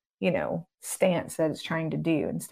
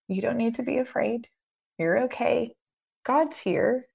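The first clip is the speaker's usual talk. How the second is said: reassuring; 5 semitones higher than usual. Shown as a demonstration. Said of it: "you're just gonna speak to that".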